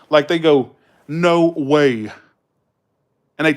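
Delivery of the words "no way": lightly mocked Californian emphasis; Valley-style disbelief; emphatic California speech. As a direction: stretch "No way" like a Californian. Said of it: "the way they emphasize everything".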